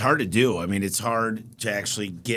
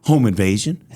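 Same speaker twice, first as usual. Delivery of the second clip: deadpan buddy; 2 semitones lower, 7 dB louder than usual. Retold or imitated. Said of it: "he goes".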